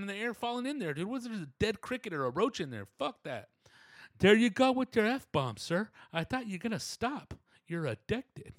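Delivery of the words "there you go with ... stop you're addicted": higher, louder and slower, primly scolding; a fussy little scold tutting at a swear; Brian Regan voice. Acted. A prim inner voice scolding him for swearing. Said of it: "little Brian Regan voice".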